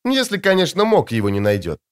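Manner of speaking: woman in white politely asking the soldiers about masked warriors; sweet woman's voice. Acted. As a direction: play the serene, otherworldly beauty.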